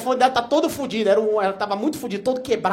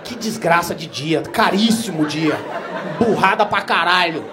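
slow lament; 6 dB louder, slower than usual. Real, not acted. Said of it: "self-lament, slow".

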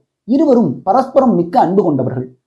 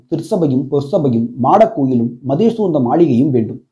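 deep-voiced Saivite priest addressing the queen; temple priest voice; 4 semitones lower than usual. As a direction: lower voice of a respectful priest. Priest mocks the Vaishnava god.

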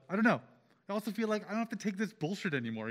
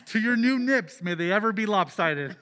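raised toasting voice; loud toast; 2 semitones higher, 6 dB louder than usual. Acted. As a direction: raise a glass and call it out.

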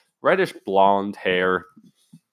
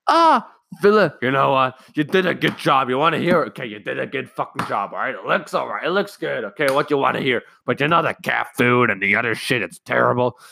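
lightly higher, exasperated mock parent; grudging mock praise; 5 semitones higher, faster than usual. Parent grudgingly praising son's housekeeping, mock exasperated. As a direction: hand out praise reluctantly, then jab. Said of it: "here's the response".

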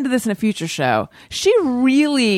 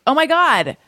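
sudden realization; 5 semitones higher than usual. Real, not acted. Host remembering she forgot the song, sudden dismayed exclamation.

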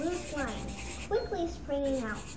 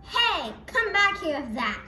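calling out; 3 semitones higher, 4 dB louder than usual. Acted. Chasing sister who took drawing.

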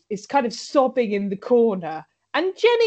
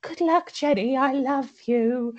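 tearful Trixie; 3 semitones higher than usual. Retold or imitated. Friend seeing Jenny off, slow mock-tearful farewell. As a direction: drag out a fond farewell. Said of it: "Trixie's like".

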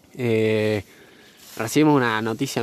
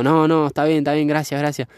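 higher voice, hurried refusal; imitated wary girl; 4 semitones higher than usual. Girl refusing a stranger's help, lightly imitated wariness. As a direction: lightly mimic a scared girl declining help. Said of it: "mirándome así con alto miedo".

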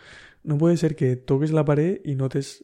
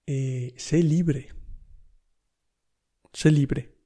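mystic stranger; much slower than usual. Retold or imitated. Imitating a stranger's mystic advice.

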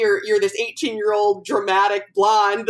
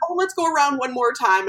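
cheerleader mom; 6 semitones higher than usual. Retold or imitated. Acting out her cheerleader mom.

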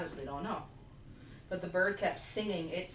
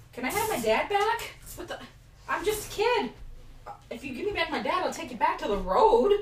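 put-on much higher, louder whiny child voice; little kid; 11 semitones higher, 6 dB louder than usual. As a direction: squeak it out like a small begging kid. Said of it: "and the son's like".

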